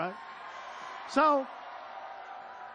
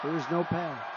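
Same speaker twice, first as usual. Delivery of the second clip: shaky broadcaster; 3 semitones lower than usual. Retold or imitated. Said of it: "And he goes".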